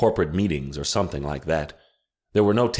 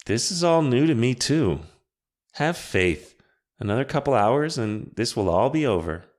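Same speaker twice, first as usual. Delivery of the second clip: a higher, lightly voiced witch, earnest; 7 semitones higher than usual. A narrator's reading. Witch explains the plan to Em and Andre, lightly higher and earnest.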